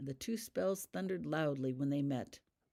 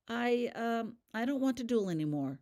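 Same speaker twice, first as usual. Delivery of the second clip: higher, halting and unsure; hesitant; 7 semitones higher than usual. A narrator's reading. Holly backing out of the duel, hesitant and higher. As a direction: falter over the words. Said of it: "she said hesitantly".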